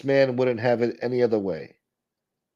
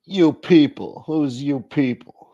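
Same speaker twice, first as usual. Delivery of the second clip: higher, drawn-out mock offence; mock indignation; 5 semitones higher, 5 dB louder, slower than usual. Host parodying offence at an insult, mock indignant. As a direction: challenge it in put-on outrage.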